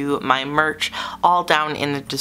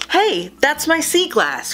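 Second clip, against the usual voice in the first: high, startled protest; indignant cry; 13 semitones higher, 4 dB louder than usual. Acted. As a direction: spot it and claim it back. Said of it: "cried Rainbow Fish".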